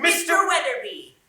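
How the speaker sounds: loud, blurted name; loud eager blurt; eager interruption. Acted. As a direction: cut in loudly with the answer. Cuts in on principal's announcement.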